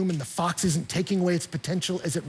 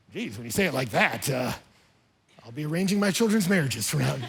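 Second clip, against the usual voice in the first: mock listener; 5 semitones lower than usual. Mock reply of an impressed listener.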